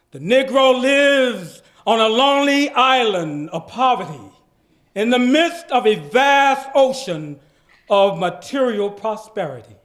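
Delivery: dramatic reading. Shown as a demonstration. Reading Martin Luther King's speech aloud with full pathos. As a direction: deliver the speech with pathos and gravity. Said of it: "I would like to capture some of the pathos".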